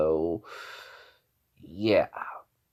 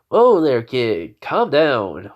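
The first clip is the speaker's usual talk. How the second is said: calling out to stop; 3 semitones higher, 6 dB louder, much slower than usual. Retold or imitated. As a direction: call out to settle him down. Teacher breaking up a fight.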